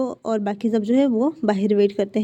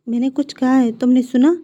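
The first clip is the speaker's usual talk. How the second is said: louder, pressing for a reaction; doctor prods the dazed husband, louder; insistent, louder; 6 dB louder than usual. Acted. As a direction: say it louder so he finally hears. Doctor repeats news, no reaction.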